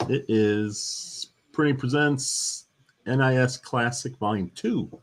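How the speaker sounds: slow, drawn-out announcement; announcer voice. Acted. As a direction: announce it like a reveal.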